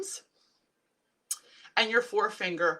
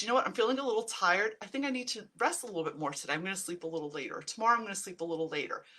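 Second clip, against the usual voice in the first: calm reassuring self-talk; faster than usual. Retold or imitated. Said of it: "If I acknowledge".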